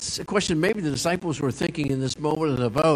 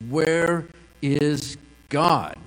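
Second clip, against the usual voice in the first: deep pastor voice; much slower than usual. Retold or imitated. Pastor questioning the boy, slow and booming. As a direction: drag it out like a pastor trying to impress. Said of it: "said in a deep voice".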